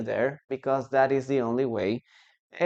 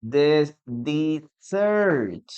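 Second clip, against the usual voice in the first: slow demo; much slower than usual. Shown as a demonstration. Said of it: "Look at this".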